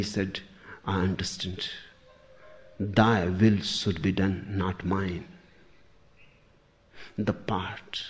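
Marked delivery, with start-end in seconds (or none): 0.8-5.3 acted resignation, settled and unforced; calm acceptance. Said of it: "And then he understood".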